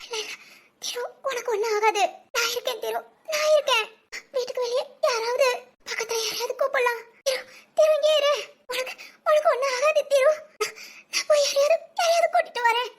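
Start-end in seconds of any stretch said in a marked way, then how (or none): 2.4-12.9 crying to an unconscious husband; crying panic. Acted. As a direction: sob through the words while panicking.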